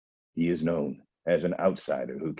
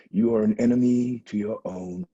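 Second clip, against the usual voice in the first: louder and higher, hurling the accusation; furious denunciation; 5 semitones higher, 5 dB louder than usual. Acted. Blind prophet denouncing the king, loud and furious. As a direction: thunder it at him.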